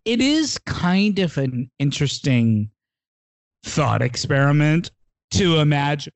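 hiccuping from vodka soda bubbles; hiccupy. Real, not acted. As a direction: talk through small hiccups. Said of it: "the bubbles are making me a little hiccupy".

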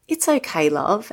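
put-on a kind London man comforting a stranger, in a light Cockney accent. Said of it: "had this lovely Cockney accent".

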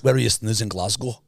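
mock-Scottish question; Scottish accent. Co-host asking about Glasgow, in Scottish accent. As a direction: ask it like a Glaswegian, in Scottish. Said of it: "give me your Scottish".

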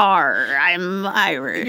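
piratey attempt at an Irish accent; drawn-out, growly "Arr" mock Irish, like a pirate; bad Irish accent. Co-host shows off their best Irish accent, hammed-up pirate-like Irish. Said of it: "my best Irish accent".

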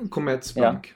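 "Commerzbank" said as a model pronunciation; pronunciation demo. Shown as a demonstration. Guest answers how to pronounce the arena, demonstrating the name. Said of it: "hur uttalar man den?".

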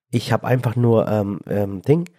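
stuffy, blocked nose from a cold. Real, not acted. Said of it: "Meine Nase ist zu".

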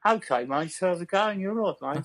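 chatty Brummy lilt; Birmingham accent. Shown as a demonstration. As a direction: greet a mate in broad Birmingham. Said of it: "Give us a Birmingham accent".

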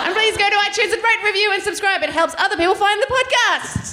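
put-on high British nanny accent; Super Nanny. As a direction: urge listeners on as a British TV nanny. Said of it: "Okay, do Super Nanny".

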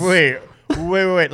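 repeated startled waits; stunned disbelief. Real, not acted. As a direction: stop them in disbelief. Stunned by the Bible story.

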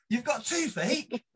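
slow, high-pitched disbelief; hammed-up astonishment, voice climbing; incredulous echo. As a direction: drag it out as an outraged question. Teller echoes roommate in disbelief.

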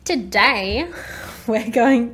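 big loud build-up on today; dramatic announcer. Acted. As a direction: announce it like a grand opening. Dramatic podcast opener.

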